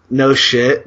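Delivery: a creepy guy's loaded two-word answer; menacing reply. Retold or imitated. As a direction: toss it out like a veiled threat. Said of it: "just like this".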